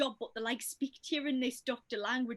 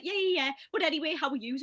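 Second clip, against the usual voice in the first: higher, a bit louder, quick dismissive chirp; breezy brush-off; 4 semitones higher, 4 dB louder than usual. Retold or imitated. Friend mimicking Sophie dodging serious questions, breezy chirp. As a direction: wave off the serious question brightly. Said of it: "she'd be like".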